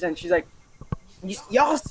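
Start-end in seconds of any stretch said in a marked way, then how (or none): 1.2-1.8 high-pitched mock yell at the crowd; calling out to the whole restaurant, pitched up high. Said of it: "screaming at the top of her lungs".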